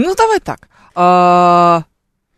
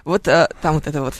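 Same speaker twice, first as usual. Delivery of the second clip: ordinary talk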